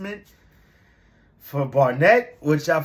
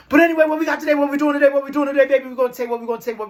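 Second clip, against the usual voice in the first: hype intro; 10 semitones higher, 4 dB louder, much faster than usual. Real, not acted. Hyped show opener to viewers.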